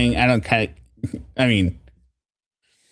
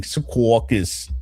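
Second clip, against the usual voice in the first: mock New Jersey accent; 3 semitones lower, 3 dB quieter, slower than usual. Shown as a demonstration. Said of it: "an impersonation of saying".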